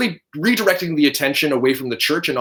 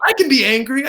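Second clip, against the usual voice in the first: playful protest; 11 semitones higher, 4 dB louder than usual. Real, not acted. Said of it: "I swear".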